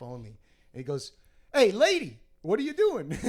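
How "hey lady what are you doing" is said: high, loud acted scolding; imitated indignant shop guy; rude challenge. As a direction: call out someone trespassing. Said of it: "rude American".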